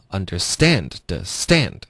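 "understand" slowly with weight on "stand"; stress on STAND. Shown as a demonstration. Teacher pointing out stress, "underSTAND". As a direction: lean on the last syllable of "understand". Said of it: "所以我们也有两个重音".

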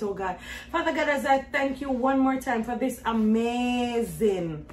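quiet, earnest thankful prayer; hushed prayer of thanks. Acted. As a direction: pray softly and gratefully to God. Prays to God on camera.

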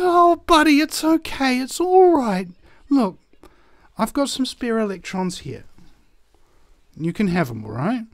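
high cooing reassurance, gradually settling down; acted comforting, easing from high to gentle; consoling. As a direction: soothe a sobbing little friend. Rescuer consoles the crying cell.

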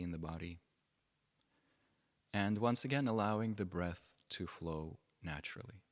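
measured phrases with long pauses between; unhurried meditation teacher, pausing often; guided meditation. Real, not acted. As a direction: guide them gently into stillness, leaving space after each phrase.

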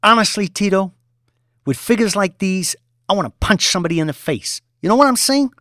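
a boss in a temper, loud and high; angry boss. Acted. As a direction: rage at the underling. Boss raging at employee.

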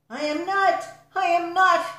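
high, loud, furious denial; heated outburst, pitch jumping up; angry cry. A narrator's reading. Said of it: "Peter got very angry".

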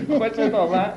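put-on a car dealer in his folksy regional Persian accent. Car dealer boasting to a buyer in a regional Persian accent. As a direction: lay on the regional Persian accent, showy and sly.

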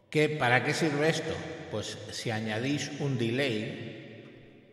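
talking with a reverb tail; reverb echo. Shown as a demonstration. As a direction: voice through echo effects, with long pauses. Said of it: "el eco que se está generando con mi voz".

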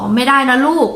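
gentle scolding. Retold or imitated. Gently removing the cat. (พูดช้าๆ อ่อนโยนกับแมว)

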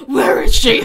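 loud put-on principal demanding answers; hammed-up shout; mock outraged principal. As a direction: bellow it as an indignant principal. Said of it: "the principal was like".

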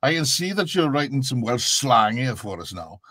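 lilting Welsh Valleys coach; thick-of-the-Valleys Welsh patter; Welsh Valleys accent. Shown as a demonstration. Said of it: "this is very specific Valleys accent".

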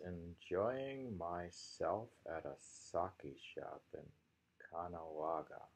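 slow, savoring reading that fades to a whisper at the end; poem reading. Acted. Teacher reading a haiku to the class, slow and hushed at the close. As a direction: linger on each word, let the last line go breathy.

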